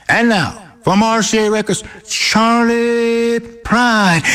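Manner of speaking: high, stretched-out announcer build to the name; showbiz announcer intro. Retold or imitated. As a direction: hold "Pride" long and high like an emcee. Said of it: "how do you want me to bring you on".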